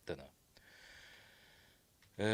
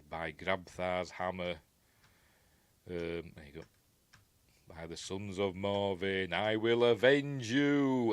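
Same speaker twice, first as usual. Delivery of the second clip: slow solemn vow. Retold or imitated. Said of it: "He says".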